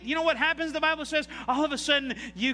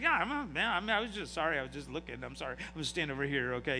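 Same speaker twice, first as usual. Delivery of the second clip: much softer, backing down meekly; sheepish apology; 8 semitones lower, 6 dB quieter, faster than usual. Retold or imitated. Line-cutter apologizes meekly to an angry parent at Disney, softer and sheepish. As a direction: mumble it like a cornered line-cutter.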